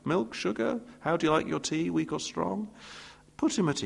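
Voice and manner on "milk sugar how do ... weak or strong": softer, kindly host offering tea; welcoming host offering tea. Pretend. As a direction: gently put a nervous guest at ease.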